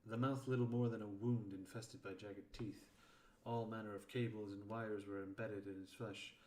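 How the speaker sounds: measured, projected audiobook reading; story narration. A narrator's reading. Narrator describing tunnels and biochambers, projected story reading. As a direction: narrate it with firm emphasis at phrase starts. Reads fiction aloud.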